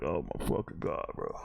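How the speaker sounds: low, weary disbelief; exasperated reaction. Retold or imitated. Host reacting to film-nerd jargon, low exasperated groan. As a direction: drop low, fed up with the jargon. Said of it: "And I'm just like".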